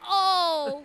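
high, loud cat yowl shaped like a word; imitated yowling cat; loud talking meow. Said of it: "he likes to randomly meow really loud".

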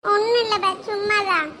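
a touch of tearful sniffling; crying. Acted. Friend asks why he's crying, answering through light tears. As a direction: hold back tears and brush it off. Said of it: "ஏன்பா அழுதுகிட்டு இருக்க".

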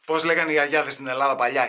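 ordinary talk, nothing marked

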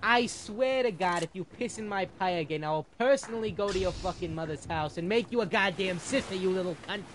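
Angry Jonas voice. Retold or imitated. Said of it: "in Angry Jonas' voice".

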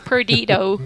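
flat American Perdido with a hard r; American accent. Shown as a demonstration. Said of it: "That was an American accent there".

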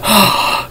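sleepy yawning gasp. Real, not acted. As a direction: let out a big yawn. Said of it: "Excuse me for yawning".

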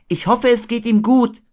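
put-on high child character voice; Christopher Robin. A narrator's reading. Boy hoping Pooh is well, high-voiced. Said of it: "sagte Christopher Robin".

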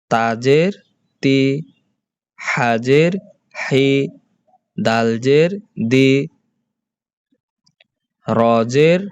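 letter names first, then a long "ee" syllable as in "তি"; spelling drill. Shown as a demonstration. Teacher shows pupils the letters with zer, deliberate spelling drill. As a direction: spell out "তাজের তি" deliberately, drawing out each vowel. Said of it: "এই হরফগুলোর উচ্চারণ কিভাবে হবে বলো".

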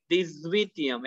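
THIS linked to Vityam with a z sound; French liaison. Shown as a demonstration. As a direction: run "deez-veet-yem" together, buzzing the z. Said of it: "X will link to U and it will become Z".

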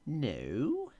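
a curt no in a lightly voiced little man; little man refusing. A narrator's reading. Little man refusing the Queen's guess, curt. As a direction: snap the no back as the little man. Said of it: "answered he".

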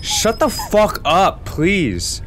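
fed-up rant at the narrator; annoyed. Real, not acted. Yelling at annoying game voice.

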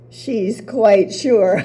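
slow, teasing drawl of doubt; mock sure. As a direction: stretch it out, mocking her certainty. Sisters mocking Psyche's certainty.

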